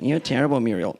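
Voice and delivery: mock Australian accent. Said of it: "in an Australian accent".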